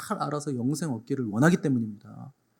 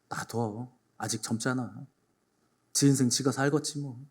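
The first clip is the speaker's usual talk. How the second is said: indifferent shrug; 3 semitones lower, 6 dB quieter than usual. Acted. Indifferent parent dismisses.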